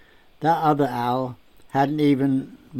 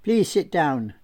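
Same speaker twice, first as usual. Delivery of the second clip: put-on French accent; 4 semitones higher than usual. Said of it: "in a delightful French accent".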